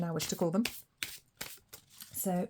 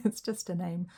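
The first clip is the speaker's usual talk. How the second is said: Australian accent. Real, not acted. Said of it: "what did I want to do an Australian accent then?".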